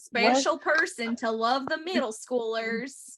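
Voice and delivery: slow Southern drawl; Southern accent. Pretend. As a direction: play up a Southern church lady. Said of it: "Is the Southern accent necessary?".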